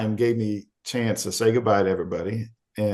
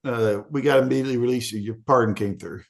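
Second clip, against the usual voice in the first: higher hurried cop voice; suddenly urgent, a bit higher; guard rushing to release him; cop realizing; 3 semitones higher than usual. Retold or imitated.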